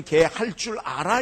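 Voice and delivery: loud, slow Chungcheong question; slow-paced Chungcheong asking; longer Chungcheong version. Shown as a demonstration. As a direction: stretch out the Chungcheong query. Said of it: "조금 더 길게 그러면".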